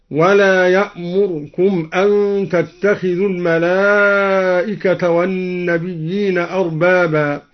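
slow recitation, r of يأمركم closed with no vowel; silenced r. Shown as a demonstration. Teacher showing al-Duri's second option, يأمركم with unvowelled r. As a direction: join r straight to k in يأمركم. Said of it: "أو إسكانها".

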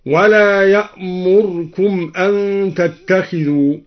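slow recitation, barely any vowel after the r in يأمركم; clipped or silenced r vowel. Shown as a demonstration. Teacher showing al-Duri's first option, يأمركم with reduced r vowel. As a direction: cut the u after the r of يأمركم very short. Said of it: "مع ملاحظة اختلاس الراء أو إسكانها".

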